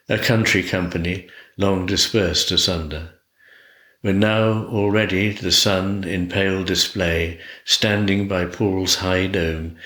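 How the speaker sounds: measured, lilting poem reading; unhurried recital with falling line ends; poetry recitation. Acted. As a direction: read it aloud as verse, phrase by phrase. Recites poem London Snow.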